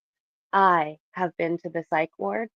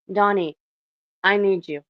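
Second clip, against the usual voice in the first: calling out; 6 dB louder than usual. Real, not acted. Calling to the newly joined friend.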